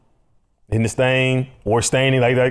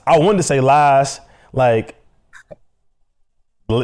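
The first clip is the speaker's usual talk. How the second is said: normal talking voice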